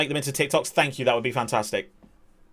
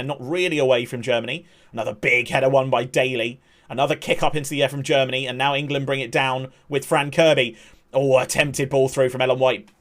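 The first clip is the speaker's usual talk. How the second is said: steady football commentator calling the action; live play-by-play. Acted. Streamer calling the England match for chat, play-by-play. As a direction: narrate the match as it unfolds.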